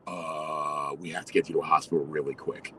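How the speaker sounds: low, soft, sheepish admission; understated warning. Retold or imitated. Friend admits the hospital is needed, quietly understated. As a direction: drop low and quiet after a hesitant "Uh". Friend breaking bad news.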